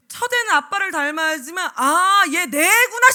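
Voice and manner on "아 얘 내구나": loud, long drawn-out "aah" of recognition; hammed-up moment of sudden certainty; acted realization. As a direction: exclaim it slowly, high and loud. Acting a father's dawning certainty.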